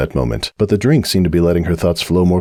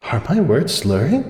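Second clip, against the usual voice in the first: Cupcake's voice; 8 semitones higher than usual. Acted. Cupcake checking herself at the bar, high and puzzled. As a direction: wonder if the words are slurring.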